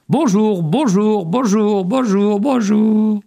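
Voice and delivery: high, evenly repeated echo; écho. A narrator's reading. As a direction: bounce the greeting back like an echo. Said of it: "Et l'écho répondit". (écho aigu qui se répète)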